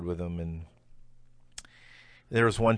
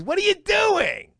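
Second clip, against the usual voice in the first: high, loud, slow imitated yell; re-enacted furious shout at the stage; retold shout; 6 dB louder, slower than usual. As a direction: yell it like he's hurt and furious. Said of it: "comes back and says".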